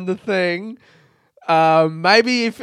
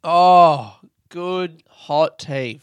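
slow sigh after sipping tea; after a sip of tea; 5 dB louder, much slower than usual. Real, not acted. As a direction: savour the sip, then speak. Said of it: "Let me have a sip of tea".

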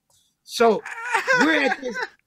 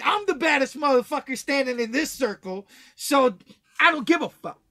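cocky tough-guy boast, pitched up a touch; a swaggering young tough sizing up the circle; Billy Badass brag; 5 semitones higher than usual. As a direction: puff up like the baddest guy in the circle. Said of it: "I always thought I was the Billy Badass".

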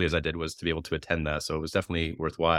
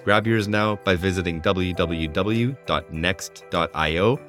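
ad read. Acted. Host reads sponsor ad.

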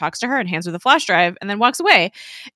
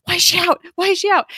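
high-pitched mock panic; freaking out; 12 semitones higher, 3 dB louder, faster than usual. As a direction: imitate someone freaking out, voice jumping up. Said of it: "he freaks out".

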